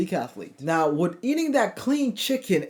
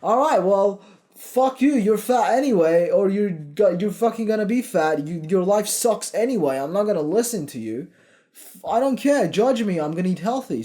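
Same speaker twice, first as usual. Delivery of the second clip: defiant comeback; 3 semitones higher than usual. Retold or imitated. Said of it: "You'll be like".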